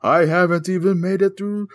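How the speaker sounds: slow, high, drawn-out spooky reading; scary voice. Pretend. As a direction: read it like a ghost story. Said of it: "Read us in a scary voice".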